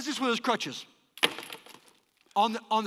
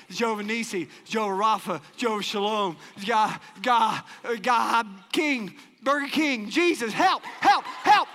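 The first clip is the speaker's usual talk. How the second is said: frantic prayer building. Retold or imitated. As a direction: pile up the names faster into panic. Frantic praying, inventing God's names.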